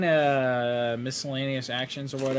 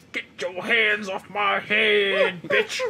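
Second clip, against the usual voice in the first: wrestler promo; 4 semitones higher, slower than usual. Pretend.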